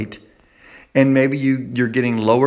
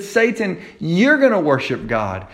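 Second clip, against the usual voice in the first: Jesus rebuking Satan; 4 semitones higher than usual. Acted. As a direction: answer the liar with authority. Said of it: "He said".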